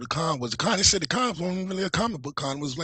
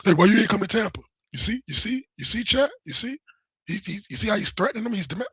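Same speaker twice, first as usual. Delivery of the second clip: higher pitched mock of an accusing reader; mocking Ethan's reading; 4 semitones higher than usual. Mocking Ethan reading out the message as a threat. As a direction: parody him twisting a casual question into a threat. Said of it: "how he read it was like this".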